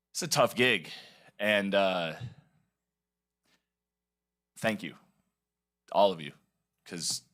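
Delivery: halting, emotional, long pauses between words; choked up, trying to hold it together; fighting back tears. Real, not acted. Thanking the school board for his son's care, voice breaking. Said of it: "I'm gonna try not to cry".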